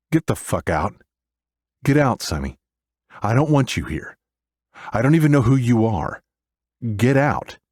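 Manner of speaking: loud, furious, high shout; angry shouting. Acted. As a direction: yell at her to get out. Yelling at Sonny to leave.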